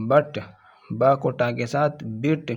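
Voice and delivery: بٹ said as "bit" with a short i after b, t retroflex; بٹ with zabar. Shown as a demonstration. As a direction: say بٹ as "biʈ", short vowel then a hard retroflex ʈ. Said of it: "جیسے ہم نے با کو ٹا کے ساتھ ملایا". (بٹ کو "بِٹ" پڑھیں)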